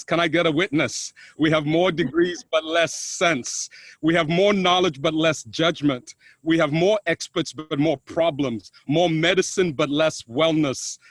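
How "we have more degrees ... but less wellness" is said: slow line endings that drop in pitch; measured recitation. Acted. Speaker opens his talk with a piece on paradox, measured recitation. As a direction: recite each contrast deliberately, letting the second half fall.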